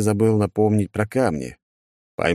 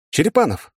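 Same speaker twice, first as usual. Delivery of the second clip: high, raised-voice exclamation; exclaiming; 10 semitones higher, 4 dB louder than usual. Acted. Hero hailing Черепанов as he picks up, exclaiming. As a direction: call the name out sharply, pitched well up. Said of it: "воскликнул я".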